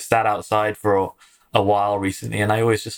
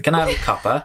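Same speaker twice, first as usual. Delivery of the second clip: Cockney Oliver Twist accent, higher and pleading; 4 semitones higher than usual. Shown as a demonstration. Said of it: "an Oliver Twist accent".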